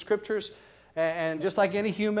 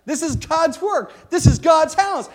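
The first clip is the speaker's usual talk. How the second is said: passionate preaching; 8 semitones higher, 8 dB louder, slower than usual. Real, not acted. Preacher building to passionate shout.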